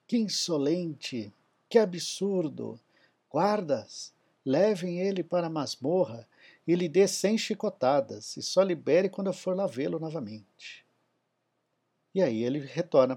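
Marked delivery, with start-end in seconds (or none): 0.1-10.9 raised pitch, furious royal commands; roaring tyrant king. Acted. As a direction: bellow orders at the guards. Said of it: "O sultão ficou irado".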